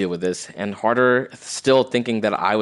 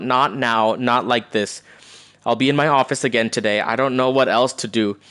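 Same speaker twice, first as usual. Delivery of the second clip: grieving mother; 4 semitones higher, 4 dB louder than usual. Acted. Reads grieving mother's texts.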